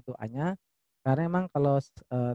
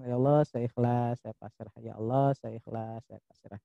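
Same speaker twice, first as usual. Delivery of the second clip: prayer. Shown as a demonstration. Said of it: "tetap Anda ucapkan".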